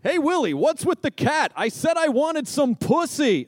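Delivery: squeaky alien sitcom puppet voice; Alf impression. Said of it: "it was an impersonation".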